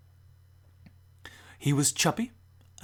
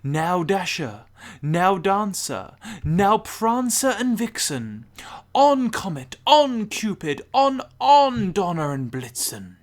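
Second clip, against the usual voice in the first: rising, louder and higher call to the reindeer; shouting names; 5 semitones higher, 6 dB louder than usual. A narrator's reading. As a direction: call each name out over the rooftops, climbing. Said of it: "he whistled and shouted and called them by name".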